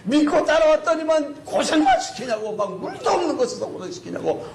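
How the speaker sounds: high, acted-out protest; heated mock complaining; resentful outcry. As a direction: heap up grievances like an indignant crowd. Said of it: "막 원망이 막 원성이 막 하늘을 찌릅니다".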